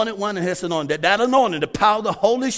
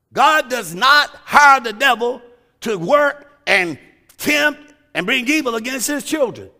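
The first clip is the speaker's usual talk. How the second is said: preaching. Acted. Preacher driving the point home to his congregation, emphatic. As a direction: hammer the point home to the church.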